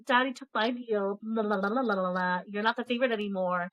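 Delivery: retold gloating, sing-song la-la teasing; mock taunting. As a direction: imitate a sister rubbing it in. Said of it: "basically taunting her".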